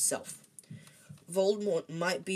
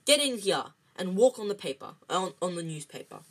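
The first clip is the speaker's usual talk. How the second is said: bossy raised-voice order; calling out; 3 semitones higher, 7 dB louder than usual. A narrator's reading. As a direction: call him in sharply. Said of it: "heard Aunt Petunia calling him".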